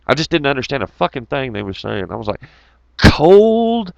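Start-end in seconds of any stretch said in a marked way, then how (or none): 3.0-3.9 high puzzled one-word question; mock bewildered. Baffled trucker in Quebec asking about cold, mock puzzled. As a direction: act confused by the word.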